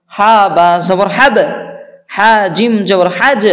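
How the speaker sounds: slow chanted spelling, rising to the joined syllable; spelling recitation. Shown as a demonstration. Teacher showing how a sakin letter joins, slow chanted drill. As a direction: draw out each letter, then land the syllable.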